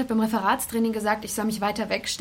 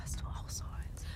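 whispered copy of her words, much softer; mocking echo; 14 dB quieter than usual. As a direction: parrot her quietly to needle her. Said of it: "Hör auf damit".

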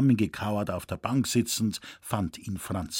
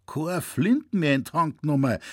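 put-on old man can't believe what he hears; old hunter repeats the news in shock; astonished exclaim; 4 semitones higher, 3 dB louder than usual. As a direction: repeat it back in higher, louder disbelief. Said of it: "rief er".

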